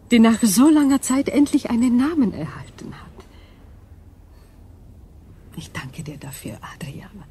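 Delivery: alien whisper fading to a breath; an otherworldly whisper fading out; eerie whisper. Acted. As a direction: hush it away into nothing.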